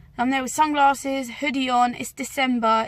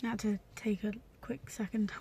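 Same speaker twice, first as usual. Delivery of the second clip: emotional; 12 dB quieter than usual. Real, not acted. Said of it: "getting emotional discussing it".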